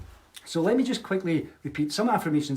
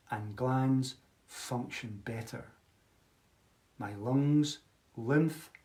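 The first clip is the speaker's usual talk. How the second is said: a touch slower, lingering on the words; slowly; slower than usual. Shown as a demonstration. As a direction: take it slow so they can follow. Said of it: "So I'll repeat that slowly".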